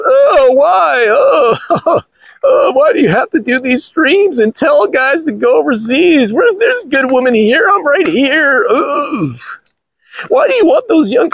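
high, whiny mock woman, half-crying; mocking complaining woman. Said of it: "type of emails I get from chicks".

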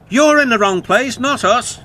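indignant high character shout. A narrator's reading. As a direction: protest as high-voiced little trucks. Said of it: "shouted the trucks".

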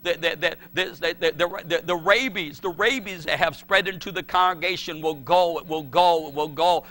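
loud, insistent declaration, hammering the repeats; fervent prayer. Retold or imitated. Father praying for his dying son, fervent and loud. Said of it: "I cried out fervently".

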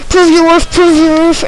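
high-pitched mock plea; urgent plea. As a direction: chant it high, twice, as an urgent demand. Quoting own plea when grabbed.

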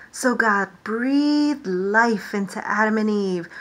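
lively storytime reading, God's hellos called out; animated picture-book read-aloud; reading to children. Acted. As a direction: read it to a class of little ones. Reads creation story to children.

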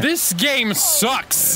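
high, drawn-out imitation; imitated outburst. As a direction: stretch it out like a quoted complaint. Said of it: "see how closely I matched it".

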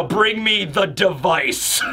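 slow, portentous order; mock-ominous command. Nami has Usopp bring the cage, slow mock menace. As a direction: stretch it out like a villain's command.

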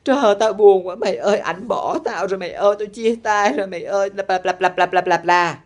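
imitating a friend's whiny breakup lament; hammed-up moaning that runs into babble; mock wailing lament. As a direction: wail theatrically, mocking the heartbroken friend. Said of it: "nó khóc la than".

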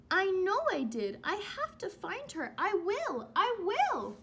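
high, eager little bird voice; a small bird vowing to find its mother; determined baby bird. Acted.

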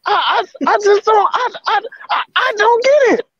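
high, strained near-sobbing voice; pushing words out through real distress; cracked, raspy upset voice; emotional, voice cracking. Real, not acted. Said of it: "I just lost my voice last night".

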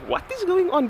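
high, baffled outburst; surprised. Retold or imitated. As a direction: blurt it out in total disbelief. Sudden confusion at the notifications.

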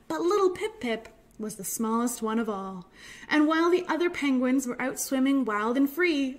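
gentle, measured storytime reading; picture-book narration. A narrator's reading. Reads a picture book aloud.

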